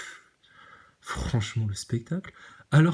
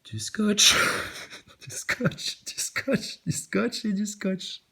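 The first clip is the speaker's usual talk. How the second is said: mock whisper; 6 semitones higher, much slower than usual. Mocking the tape in station.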